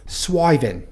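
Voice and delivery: Cockney accent, "swivin'" said slowly with no final G; Cockney demo, clip the G off "swivin'"; Cockney dropped G. Shown as a demonstration. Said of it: "drop the G".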